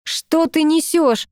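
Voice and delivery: slow, heated demand; angry. Acted. Girl angrily confronts her ex, slow and heated. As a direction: hurl it back at him, slowly. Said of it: "разозлилась я".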